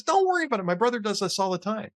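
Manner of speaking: breezy driver. Acted. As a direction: toss it off like nothing's wrong. Driver voiced in a joke.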